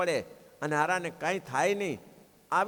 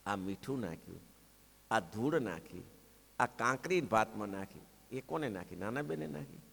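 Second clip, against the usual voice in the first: softer and lower, a hushed reckoning; quiet reproach; 7 semitones lower, 6 dB quieter than usual. Acted. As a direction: lay out each trick softly. Maharaj gently lists the tricks.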